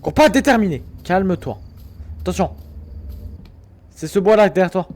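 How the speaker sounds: loud alarmed yelling; panicked shouting. Real, not acted. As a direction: shout urgent warnings. Panicked calls in horror game.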